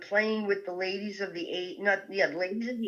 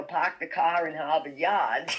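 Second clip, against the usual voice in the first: Park the car in Harvard Yard with dropped r sounds, lightly voiced; quoting the Boston phrase in passing; quoted Boston accent. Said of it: "totally blasted out with".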